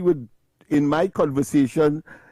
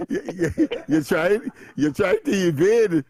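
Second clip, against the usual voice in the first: laughing protest; 2 semitones higher than usual. Real, not acted. Host laughing after the caller calls him an enemy of eloquence. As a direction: protest while still laughing.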